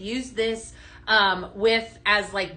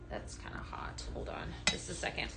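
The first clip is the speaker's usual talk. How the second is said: whispered off-mic, much softer; whispered aside; 6 semitones lower, 15 dB quieter than usual. Real, not acted. Host whispering off-camera mid-show, aside in a whisper.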